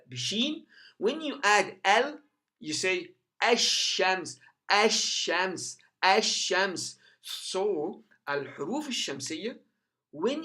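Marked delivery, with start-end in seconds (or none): 3.4-7.0 ASH-SHAMS with silent l and long sh; assimilated lam. Shown as a demonstration. Teacher adding al to shams, lam silent. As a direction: run ASH-SHAMS together on a held sh. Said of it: "the al is assimilated".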